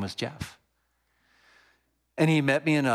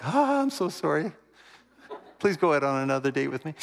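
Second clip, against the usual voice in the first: laughing apology; 6 semitones higher than usual. Retold or imitated. Joking apology to Karen after bad date.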